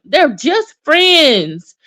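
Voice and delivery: drawn-out, pointed; slow sarcastic drawl; slow knowing sass. Retold or imitated. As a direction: spell it out slowly, unimpressed. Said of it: "I'm like".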